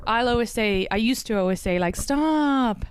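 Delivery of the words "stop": higher, playful annoyed "Stop" with a falling end. Retold or imitated. Wife tells annoying husband off playfully, higher "Stop". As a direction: snap "Stop" at him in fun. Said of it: "when he'd be annoying me".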